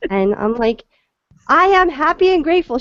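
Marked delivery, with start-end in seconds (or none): 1.5-2.8 high, bright sing-song chant; cheery affirmation. Retold or imitated. To the panicking mother, a high chirpy sing-song affirmation. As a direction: lift the car's mood with a chirpy chant.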